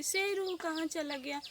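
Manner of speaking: loud call searching for the pet; calling loudly. Retold or imitated. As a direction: call the dog from across the yard. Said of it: "ज़ोर से उसे बुलाती".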